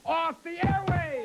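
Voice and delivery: rallying shout. Acted. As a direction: punch it out for applause. Host rallying audience.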